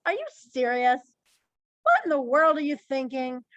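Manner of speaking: mildly sarcastic disbelief. Shown as a demonstration. Teacher gives the class an example, lightly sarcastic. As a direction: question their sense with a touch of sarcasm. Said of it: "Sarcasm is like".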